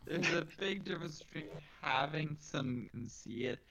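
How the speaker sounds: slowed, glitchy robot voice. Real, not acted. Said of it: "You are turning into a robot".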